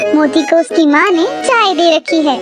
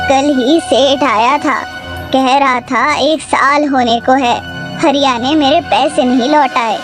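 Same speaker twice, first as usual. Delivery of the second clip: scolding mother; 2 semitones lower than usual. Acted. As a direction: chide a miserly son. Mother scolds her miserly son. (डाँटती हुई माँ)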